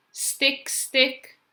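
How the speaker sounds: high, separate sticks; storybook sound words. Acted. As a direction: pop each stick up high. Storybook noise words acted out.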